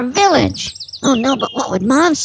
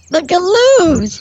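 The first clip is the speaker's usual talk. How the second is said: dramatic reveal; 5 semitones higher, 3 dB louder, slower than usual. Acted. Naming a dreaded monster.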